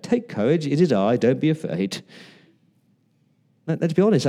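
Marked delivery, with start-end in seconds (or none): 0.0-2.0 lightly condescending, singsong reassurance; mildly patronizing. Shown as a demonstration. Preacher trying out Jesus's tone of voice, mildly patronizing. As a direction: soothe as if talking down slightly. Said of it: "that sounds a bit patronizing".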